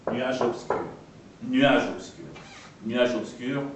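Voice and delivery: "nuage" squeezed into one syllable, nuaj; "nuage" in a single beat; syneresis. Shown as a demonstration. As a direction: glide the u of "nuage" straight into the a. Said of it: "une syllabe".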